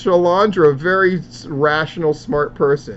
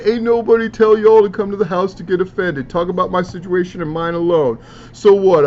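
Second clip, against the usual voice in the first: raised voice, imitating an indignant poster; mock defensive outburst; 3 semitones higher, 4 dB louder than usual. Vlogger voices wrestler telling critics off, mock defensive. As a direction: read it as a heated retort, loud on "So what". Reading out a defensive angry post.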